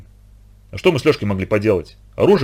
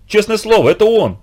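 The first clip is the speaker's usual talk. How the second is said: excited recognition; 9 semitones higher than usual. A narrator's reading. Girl recognizing the teacher's voice, eager and high. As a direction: burst out with glad certainty.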